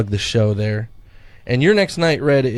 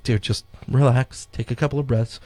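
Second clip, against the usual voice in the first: soothing friend. Retold or imitated. Friend soothing panicking performer.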